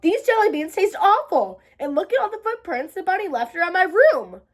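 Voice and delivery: high whiny complaint; complaining. Acted. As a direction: grumble it like a kid. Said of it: "I complained".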